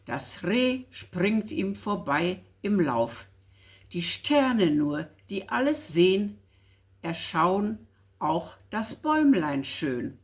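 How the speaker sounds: verse read out deliberately, phrase by phrase; poem recitation. Acted. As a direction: recite a Christmas poem line by line. Reads a Christmas poem aloud.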